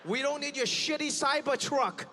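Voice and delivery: slow, smug put-on Chinese voice; mock Chinese buyer. Chinese buyer brushing off American cars, slow and smug. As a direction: brag slowly, unimpressed. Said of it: "They're like".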